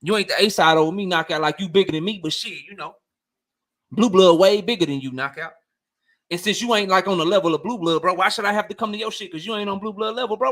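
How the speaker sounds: lightly voiced Drico brushing him off; imitating Drico. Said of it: "And Drico like".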